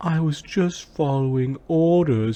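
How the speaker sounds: taunting, completely different voice. Retelling her reply in a completely different voice: imitating her mocking tone. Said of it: "she says in like a completely different voice, but there's a mock there was a mocking tone".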